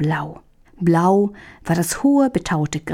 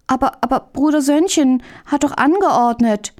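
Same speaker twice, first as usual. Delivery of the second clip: higher, stammering appeal; pleading reasoning; 6 semitones higher than usual. Acted. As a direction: try to bring him to reason. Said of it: "versuchte Hähnchen Möndlein zur Vernunft zu bringen".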